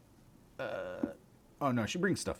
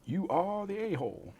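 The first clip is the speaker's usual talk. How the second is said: teasing; 11 semitones higher than usual. Real, not acted. Teasing the dog.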